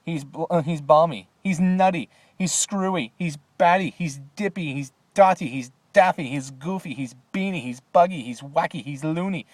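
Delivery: high, loud panicked list; frightened shouting. A narrator's reading. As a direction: shout each one in alarm. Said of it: "chorus of frightened shouting".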